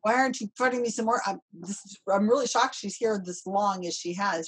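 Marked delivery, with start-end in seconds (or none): 0.0-1.2 lightly voiced needy cat, a bit higher and fast; voicing the cat. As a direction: play the cat begging to be petted, quick. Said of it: "my cat is telling me".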